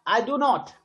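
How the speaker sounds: "not" drawn out and stressed; slow "I do not", landing on "not". Shown as a demonstration. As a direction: take a little extra time on "not". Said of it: "not को बोलने में थोड़ा सा समय भी ले रहे हैं".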